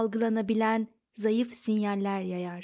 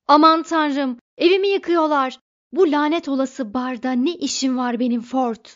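much louder, higher frantic cry; panicked shouting; 3 semitones higher, 9 dB louder than usual. A narrator's reading. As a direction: cry it out as his house falls. Arthur sees house demolished. (evi yıkılırken panikle bağırış)

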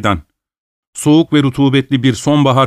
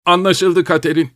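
anguished complaint; 5 semitones higher than usual. A narrator's reading. Acted outburst of bitter husband.

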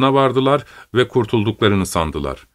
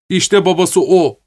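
higher, slow exclamation; accusing shout; 7 semitones higher, 4 dB louder, slower than usual. A narrator's reading. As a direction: point him out to the crowd. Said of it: "diye bağırdı".

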